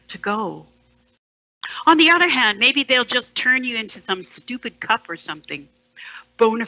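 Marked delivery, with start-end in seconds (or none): 1.9-4.8 higher and louder, thrown out sharply; mock outburst. Speaker mocking the dead man's fate, loud and sudden. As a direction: burst in with a sudden loud turn.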